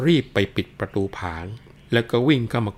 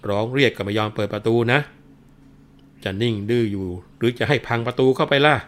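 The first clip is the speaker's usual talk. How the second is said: a constable hollering threats to break the door down; mock officer yelling at the locked house; policeman shouting; 3 semitones higher, 4 dB louder than usual. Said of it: "ก็ร้องตะโกนบอกว่า".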